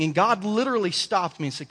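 ordinary delivery

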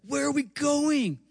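put-on high, slow child's voice asking; a drowsy five-year-old wondering aloud; small girl's voice, slowed and lifted high; sleepy little girl. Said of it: "and they said".

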